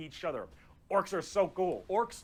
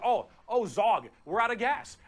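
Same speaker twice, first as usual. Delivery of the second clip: higher, louder mock-alarmed orc; raised orc voice, playful panic; alarmed orc passenger; 5 semitones higher, 6 dB louder than usual. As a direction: call out to the driver as a worried orc. Acts out orc in stalled machine.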